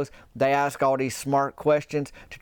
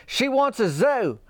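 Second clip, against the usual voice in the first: much higher and slow, sing-song; dazed Brett; 9 semitones higher, slower than usual. Retold or imitated. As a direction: tell her dreamily like it explains everything. Brett's refrain to Cricket.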